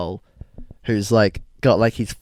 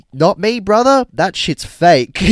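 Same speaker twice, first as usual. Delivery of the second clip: mock Ashton; 8 semitones higher, 8 dB louder, slower than usual. Voicing Ashton agreeing.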